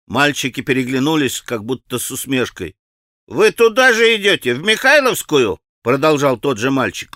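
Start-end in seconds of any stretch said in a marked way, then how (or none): 3.3-5.6 put-on higher, lively boyish voice; boy's eager question. A narrator's reading. Boy asking Alyosha which way he goes, eager. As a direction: ask it like a keen schoolboy.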